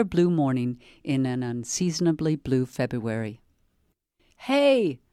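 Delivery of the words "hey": a high, sharp call to get attention. A narrator's reading. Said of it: "the woman called".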